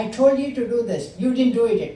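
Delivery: stern scolding. Retold or imitated. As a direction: lay down the law as the retold guru. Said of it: "he'll come with a very stern face".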